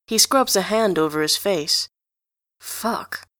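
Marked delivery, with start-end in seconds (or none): 2.6-3.3 whispered curse. Acted. Enjolras mortified, hand over face.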